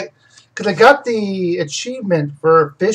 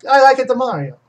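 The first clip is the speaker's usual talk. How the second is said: higher, mock Italian accent; accidental Italian accent attempt; 5 semitones higher than usual. Shown as a demonstration. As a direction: slip into a cartoonish Italian accent. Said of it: "now I'm doing Italian".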